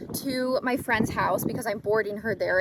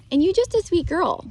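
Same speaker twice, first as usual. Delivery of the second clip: talking to a horse; 9 semitones higher, 3 dB louder than usual. Real, not acted. Aside to the horse.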